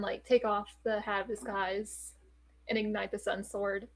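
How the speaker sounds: ordinary talk, nothing marked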